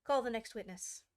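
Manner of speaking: loud court call. Acted. King calls out in court.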